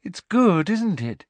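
high-pitched, pleased and dreamy; happy. A narrator's reading. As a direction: delight in your own creation. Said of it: "said Luna happily".

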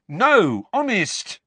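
high, tearful, urgent plea; desperate apology. A narrator's reading. Hermione apologising to Harry, desperate. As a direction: near tears, begging forgiveness. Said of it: "said Hermione desperately".

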